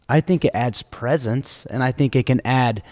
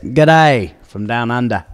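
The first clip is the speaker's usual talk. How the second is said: put-on Australian accent; 3 dB louder, slower than usual. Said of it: "Very good".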